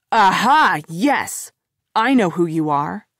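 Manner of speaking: a burst of eureka, then settling; excited realization. A narrator's reading. Corey recognizing Shelley, excited. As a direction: snap it out like it just clicked.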